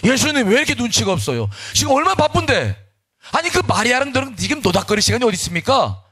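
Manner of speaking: high-pitched, acted exasperation; indignant mock protest; angry complaint. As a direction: scold the guest as a fed-up hostess. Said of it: "예수님께도 막 화를 내는 거야".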